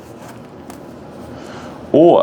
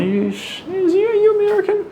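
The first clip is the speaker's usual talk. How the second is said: much higher, quick, surprised question; quoting a foreigner. Retold or imitated. Non-Americans asking the painter if he's American, high surprised mock question. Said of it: "And they're like".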